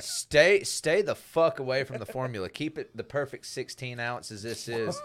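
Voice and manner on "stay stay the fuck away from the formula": loud, fed-up yell at the company; angry yell. Real, not acted. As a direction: shout it at the drink maker. Yelling at the drink maker.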